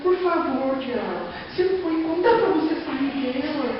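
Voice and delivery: soft, slow, begging prayer mocked; mock timid pleading. Pastor mocks a feeble prayer to the devil, soft and slow. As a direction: whimper a weak plea to the devil. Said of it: "não é orar pra ficar".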